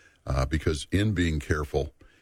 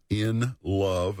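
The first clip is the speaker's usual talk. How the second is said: "in love" drawn out slowly for emphasis; slow right down to underline "in love"; stress on "in love". Real, not acted. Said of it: "I emphasize the word".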